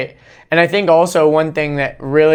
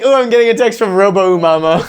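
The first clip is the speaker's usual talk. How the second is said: laughing through a higher-pitched mock announcement; playful, laughing pretend surprise; amused mock reaction; 4 semitones higher, 3 dB louder, faster than usual. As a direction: act it out while giggling. Joking retold reaction amid laughter.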